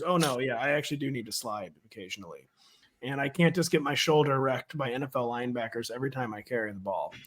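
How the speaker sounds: low, soft player's confession; voicing the player. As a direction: quietly play the chastened quarterback. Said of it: "the bet you're placing on Anthony Richardson this year is".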